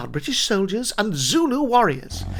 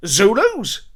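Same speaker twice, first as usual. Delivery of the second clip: sharp, higher alarmed question; startled exclamation; 4 semitones higher, 4 dB louder than usual. Acted. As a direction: jolt at the news of Zulus. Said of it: "exclaims the soldier".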